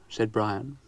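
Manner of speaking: ordinary delivery, nothing marked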